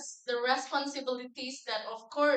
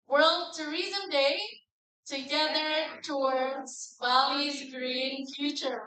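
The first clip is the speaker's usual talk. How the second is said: big smile, louder and upbeat; with excitement; 3 dB louder, slower than usual. Shown as a demonstration. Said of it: "time with a big smile and also with an excitement".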